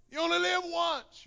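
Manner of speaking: high, careless tempter taunt. Retold or imitated. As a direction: toss it off high and carefree. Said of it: "carnal voice that sometimes says".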